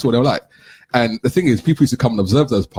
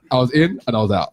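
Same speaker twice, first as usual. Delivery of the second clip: laughing; 3 semitones higher than usual. Real, not acted.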